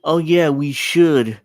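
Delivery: slow, dragged-out half-hearted promise; lazy noncommittal shrug. Retold or imitated. Mocking lawmakers as a slow, shrugging empty promise. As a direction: say it like you'll never bother. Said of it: "A resolution is like".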